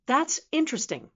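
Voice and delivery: lifted, interested; genuine curiosity. Shown as a demonstration. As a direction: sound truly intrigued by it. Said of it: "spoken with genuine curiosity".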